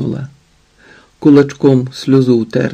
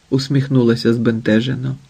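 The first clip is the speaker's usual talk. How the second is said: ordinary delivery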